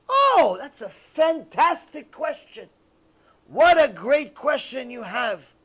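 slow, savored enthusiasm; delighted praise. Acted. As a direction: praise it slowly, as if truly impressed. Sage praises an insulting question kindly.

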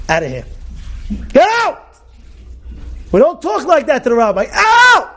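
sudden, very high roaring order to get out; furious shout. Retold or imitated. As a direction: bellow at him to leave now. Rabbi throws out disrespectful student.

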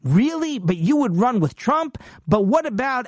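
hammed-up astonished disbelief; shocked disbelief. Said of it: "he was so shocked and taken aback".

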